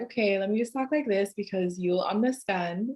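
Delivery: lightly put-on American English; code-switched American accent. Shown as a demonstration. Speaker adapting so listeners understand, American accent. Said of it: "code switching is real".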